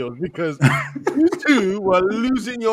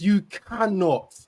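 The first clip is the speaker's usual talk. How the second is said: slow pleading warning; 7 dB louder, slower than usual. Retold or imitated. Pleading with team not to collapse.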